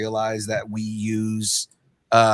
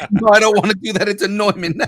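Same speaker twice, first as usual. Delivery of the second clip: high mimicking echo; 11 semitones higher, 8 dB louder, faster than usual. Friend mimics the host's line in a high voice. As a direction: repeat it pitched way up and loud. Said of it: "love that".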